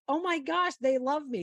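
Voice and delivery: light up at the crowd's love; retold joyful gasp of a golfer; delighted. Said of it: "Amy looked up there and was like".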